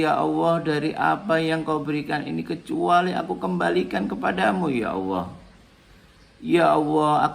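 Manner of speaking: devout supplication; grateful prayer. Shown as a demonstration. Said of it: "Lalu misalkan kita kepingin tambahi".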